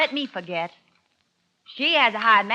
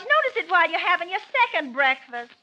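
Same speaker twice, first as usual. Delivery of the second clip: bitter taunting; 7 semitones higher, 4 dB louder than usual. Acted. Jealous wife taunts husband.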